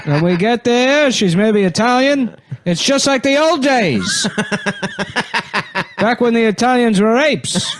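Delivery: put-on high, laughing old TV host; old showman voice. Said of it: "I thought that was Regis".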